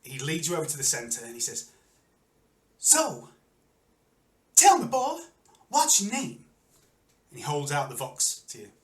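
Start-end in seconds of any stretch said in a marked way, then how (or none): 2.8-6.4 high, loud showman's question; arena announcer. Acted. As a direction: call it out for the whole arena. Announcer questions challenger before crowd.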